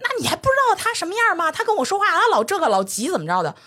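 high-pitched mock complaint, impatient; quoted boss complaint. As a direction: imitate the boss whining about him. Quoting boss's angry complaint.

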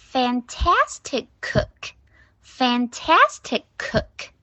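slow "fantastic cook" with the final word fully pronounced; clearly sounded "cook". Shown as a demonstration. Teacher reminding pupils to sound it, clearly sounded "cook". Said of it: "Cook是要发音的".

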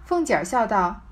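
measured reading of a classic novel, phrase by phrase; story narration. Acted. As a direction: read the old text aloud with deliberate pauses. Reads the novel's text aloud.

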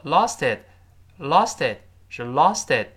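"lost it" with the middle t lightly voiced; slow teacher demo of "lost it"; softened t linking. Shown as a demonstration. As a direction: link "lost it", t softened toward a d. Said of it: "中间那个t轻轻地浊化".

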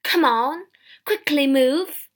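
loud, slow, angry urging; irate shopkeeper driving someone on; angry command. A narrator's reading. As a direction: force each word out angrily. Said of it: "said the shopkeeper angrily".

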